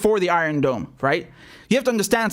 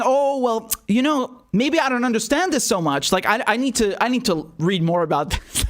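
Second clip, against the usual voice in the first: higher, hammed-up innocent hedging; mocking the congresswoman; 3 semitones higher than usual. Commentator mocks congresswoman backpedaling on Israel, higher hammed-up voice. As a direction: play her dumb, pretending she needs to read more. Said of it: "she then starts saying".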